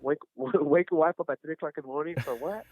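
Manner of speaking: stumbling through it with a laugh; half-laughing, incredulous question; amused. Real, not acted. Joking retelling amid shared laughter.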